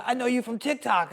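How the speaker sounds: thrilled stranger on the street; excited fan. Retold or imitated. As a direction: play the starstruck fan spotting him. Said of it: "They say".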